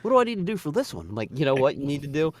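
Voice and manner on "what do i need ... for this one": high, fast whiny shopper voice; mock fussy shopper. Worker mocking a confused shopper, high and whiny. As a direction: squeak it out like a flustered customer.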